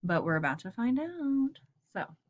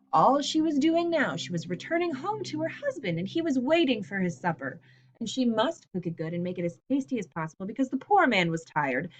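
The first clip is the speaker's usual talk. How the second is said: class read-aloud with light character voices; story read aloud. Acted. Teacher reading the grocery store scene to the class, lightly voiced.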